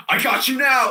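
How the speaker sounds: high, loud gotcha shout; triumphant cop. Acted. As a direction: pounce on the culprit. Acts out cop catching him.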